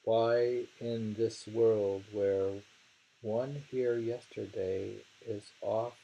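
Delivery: measured poetry reading; poem reading. Acted. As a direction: read the verse slowly, weighing each line. Reads poem aloud slowly.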